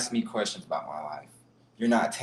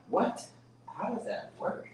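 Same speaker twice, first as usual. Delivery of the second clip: higher, whispered disbelief; a slow, stunned whisper pitched up; incredulous; 10 semitones higher, 7 dB quieter, slower than usual. Real, not acted. Ranting about people doubting him.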